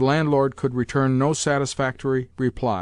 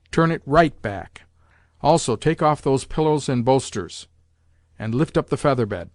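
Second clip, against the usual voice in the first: lightly voiced bossy old lady, slowing on the first order; commanding grandmother; 3 dB louder than usual. Grandmother directing the lackeys about the bed, lightly imperious. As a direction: give orders to the servants.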